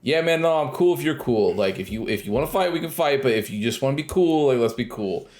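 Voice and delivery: mock friendly, keeping things cool; imitated chill guy. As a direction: play at being the chill player. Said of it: "He's trying to be chill with people".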